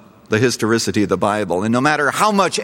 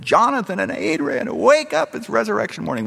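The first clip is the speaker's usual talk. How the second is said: high, loud summons, rising higher; louder retold shout; 12 semitones higher than usual. Preacher shouting louder to wake the dead. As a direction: call out with all your might. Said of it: "I shouted more loudly".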